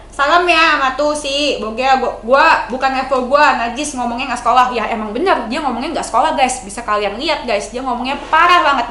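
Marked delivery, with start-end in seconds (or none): 0.1-4.7 lightly mock Karen's snobby put-down. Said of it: "kata Karen".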